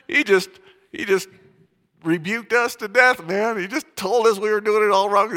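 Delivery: hammed-up Scottish accent, booming out a rebuke; Alistair Begg Scottish accent. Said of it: "it's Scottish accent".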